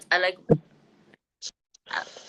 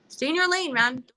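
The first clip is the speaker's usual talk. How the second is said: sassy brush-off; 6 semitones higher than usual. Retold or imitated. Sassy command.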